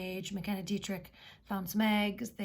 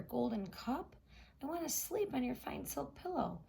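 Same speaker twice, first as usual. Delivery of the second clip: higher frog voice, eager; a hint of a pleading frog; 4 semitones higher than usual. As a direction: frog listing his wishes to the princess. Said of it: "he said".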